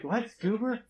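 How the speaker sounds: high, rising bewildered "What? Goober?"; puzzled locals. Retold or imitated. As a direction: ask "Goober?" as if the word makes no sense, pitched well up.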